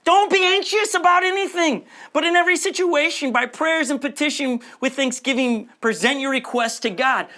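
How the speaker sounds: emphatic reread. Shown as a demonstration. Pastor rereads verse to congregation, fervent. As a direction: hammer the verse home with passion. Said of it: "Should I read that again?".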